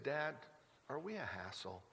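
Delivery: soft, sweet and sincere, trailing quietly; sincere child. Retold or imitated. Daughter asks her dad from the front seat, soft and sincere. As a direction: ask it gently like a hurt little girl. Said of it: "real serious and sincere, just sweet".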